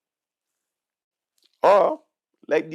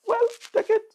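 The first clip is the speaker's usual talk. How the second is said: scornful jab; 4 dB louder, faster than usual. Real, not acted. Mocking the voters.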